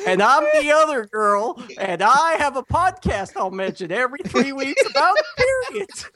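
a hint of a chatty woman, laughing; man doing a woman's voice. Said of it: "the girl show's impression".

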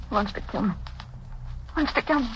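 high, hushed terror; frightened whisper. Acted. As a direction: breathe it out in fear. Alone, terrified.

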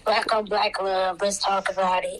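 reluctant, low-energy agreement; disturbed, distraught. Real, not acted. Co-host giving in to a change of topic, sounding distraught. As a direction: drag it out slowly, as if put off by the topic. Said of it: "why do you sound so disturbed".

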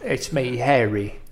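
mock Harry Potter British; Harry Potter impression. Quoting Harry Potter for his friend, light British. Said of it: "it's Harry Potter".

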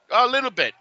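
high, mock-Italian "a little bit"; Italian clerk. Italian clerk replying in English.

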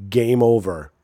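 punchy loud call; loud game over. Acted. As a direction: shout it like an arcade. Repeated louder take.

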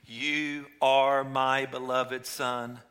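slow, loud, booming voice of God; God's voice from heaven declaring his beloved Son. Acted. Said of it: "the voice from heaven called out".

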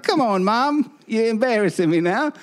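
lightly voiced embarrassed daughter. Daughter begging her cursing mom to stop. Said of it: "The daughter's like".

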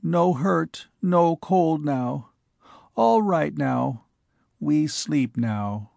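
slow, gentle comforting voice; reassuring. Acted. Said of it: "warm and close and reassuring him".

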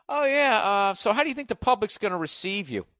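high, sugary mock interviewer; spring the question with fake sweetness; sly host ambush.

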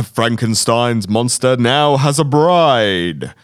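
put-on slow old trailer voice; 1940s announcer. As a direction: read it like a creature-feature tagline. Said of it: "nineteen forties American announcers".

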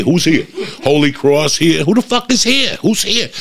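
hammed-up sideline dad yelling; mocking yell. Mocking the dad yelling at the kids, high mock shout.

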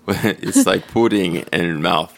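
slow, thick attempt at British accent; slipping British accent. Hunting for the lost accent, slow British attempt. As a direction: feel for the lost English accent, slowly. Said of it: "I lost the accent".

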